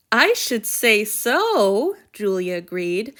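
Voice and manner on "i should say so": slow and proud, a touch louder; warm with pride. Acted. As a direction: savor every word with pride. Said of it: "voice warm with pride".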